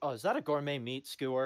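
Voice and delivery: ordinary talk, nothing marked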